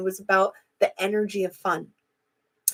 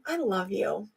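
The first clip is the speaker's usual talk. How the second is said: "I love you" said much softer and tender; loving tone; 8 dB quieter than usual. Shown as a demonstration. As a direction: let the words land gently, full of love. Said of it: "you felt that in that tone".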